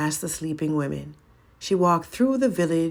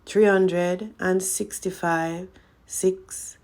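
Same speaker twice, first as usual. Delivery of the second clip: counting; 3 semitones higher, slower than usual. Acted. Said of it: "she counted".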